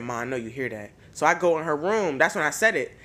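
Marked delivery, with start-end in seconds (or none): 0.0-0.9 hushed urging. Retold or imitated. Urging mom at night.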